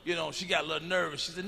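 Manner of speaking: ordinary delivery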